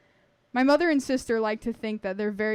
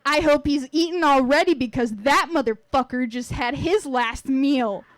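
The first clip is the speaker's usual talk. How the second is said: growled threat; 3 semitones higher, 4 dB louder than usual. Acted. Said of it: "My sister growled".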